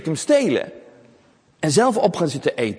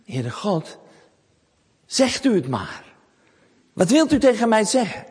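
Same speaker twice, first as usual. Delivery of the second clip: netjes en eerbiedig; 7 semitones higher than usual. A narrator's reading. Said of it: "zegt Samuel heel netjes".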